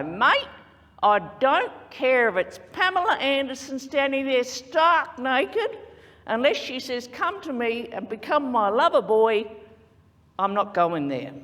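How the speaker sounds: blokey Australian mate talk, a touch loud; Australian twang. Shown as a demonstration. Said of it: "use your best Australian twang and go".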